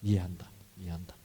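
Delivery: soft, low, understanding murmur; 공감하듯. Acted. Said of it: "공감하시고". (나직이 다독이듯)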